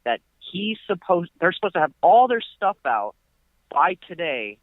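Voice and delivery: high, agitated mock rant; imitating indignant landlord. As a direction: rant like the furious landlord, voice pushed up. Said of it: "It's like".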